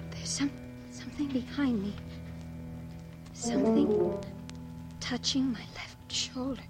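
halting, high and hushed with fear; frozen in dread, words coming out in pieces; terrified, barely daring to speak; frightened. Acted. Something creeping up behind her.

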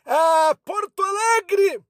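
high, drawn-out cry of the city; excited exclamation. Acted. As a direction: call it out with a burst of excitement. Announcer exclaims city name.

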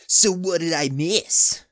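slow, loud goofy question; clueless Jake. A narrator's reading. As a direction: ask it obliviously.

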